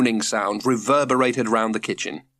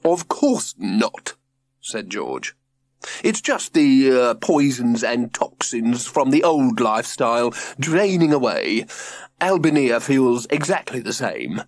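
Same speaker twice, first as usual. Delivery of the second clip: prim father voice. Acted. George voiced.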